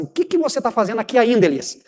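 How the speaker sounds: mild exasperation on "ainda" in "aqui ainda"; God pressing the prophet, a touch fed up; impatient question. Shown as a demonstration. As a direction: ask it like you've run out of patience. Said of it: "Deus tá falando mais ou menos assim".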